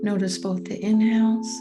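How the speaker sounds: calm guiding voice with long, spacious pauses; guided meditation. Real, not acted. Coach guiding listeners through a meditation on patience, calm and unhurried. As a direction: lead them gently into stillness, leaving room to breathe.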